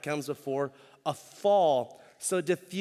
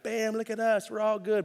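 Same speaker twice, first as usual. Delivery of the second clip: higher, a bit bragging; mock showing off; 6 semitones higher than usual. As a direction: parody a picture-perfect church. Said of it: "Instagram church where we're like".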